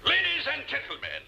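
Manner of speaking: grand, high orator's opening; formal speech voice. Shown as a demonstration. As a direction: address the banquet hall with pomp. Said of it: "Now then".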